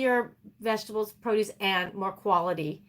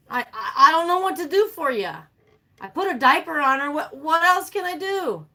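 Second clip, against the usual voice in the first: higher, exasperated mock reply; helpless pleading; 5 semitones higher than usual. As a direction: protest helplessly to a begging dog. Acting her helpless reply to dog.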